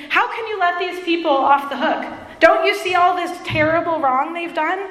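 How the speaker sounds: imitating an affronted complainer; indignant Jonah. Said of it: "He was indignant".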